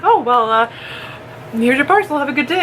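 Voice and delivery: high awkward mailman voice; awkward polite postman; high mock postman. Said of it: "he was like".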